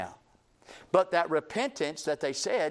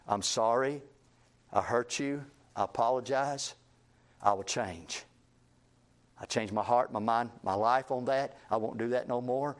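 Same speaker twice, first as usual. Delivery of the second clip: lower, subdued heartfelt apology; sincere repentance; 4 semitones lower than usual. Acted. Preacher modelling godly repentance to someone hurt, sincere and subdued. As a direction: apologize humbly and mean it, pitched low. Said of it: "A godly repentance is".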